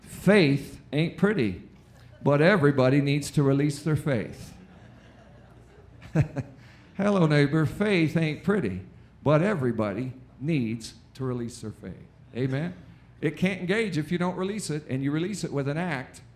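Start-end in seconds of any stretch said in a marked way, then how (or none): 0.0-4.5 playful ad-man voice turned sermon; commercial voice. Retold or imitated. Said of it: "the Holy Spirit spoke to me and said". 7.0-12.1 commercial voice. Retold or imitated. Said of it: "the Holy Spirit spoke to me and said".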